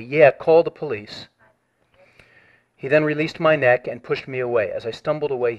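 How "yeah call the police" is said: slow, mocking drawl of a taunt; a thug mocking the call for police, slowly; mocking echo. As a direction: mimic the taunt, stretched out. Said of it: "The guy yelled to them mockingly".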